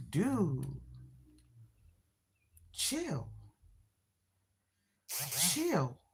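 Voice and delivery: soft, tired brush-off; weary dude chill. Retold or imitated. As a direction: shrug it off quietly. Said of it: "I'm like".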